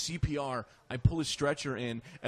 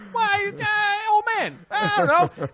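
high, loud confused yelp; clueless shout; 6 dB louder, much slower than usual. Retold or imitated. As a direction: play dumb in a high loud voice. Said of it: "And I was like".

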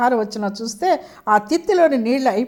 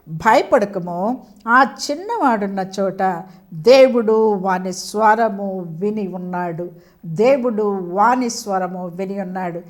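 slow, lower, reassuring read; reassuring divine words; 5 semitones lower, slower than usual. Acted. God's angel reassuring weeping Hagar, slow and lower. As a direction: hold each word as comfort to a frightened mother.

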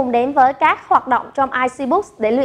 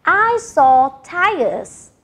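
each word spaced out slowly for learners; slow model sentence; 3 semitones higher, much slower than usual. Shown as a demonstration. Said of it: "we say".

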